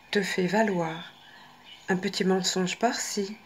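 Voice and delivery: voix posée et intime, avec quelques murmures; lecture de carte inspirée. Acted. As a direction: lis le message comme un oracle. Lit le texte de la carte. (lecture du message de la carte, ton posé)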